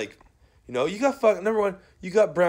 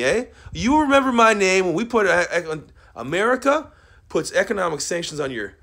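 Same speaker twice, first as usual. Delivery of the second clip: raised voice, venting fury; angry rant; 4 dB louder than usual. Real, not acted. Ranting at people who don't know his name, angry loud voice.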